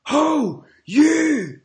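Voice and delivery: imitating an angry cyclist. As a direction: bark it to grab the driver's attention. Cyclist bangs on van window.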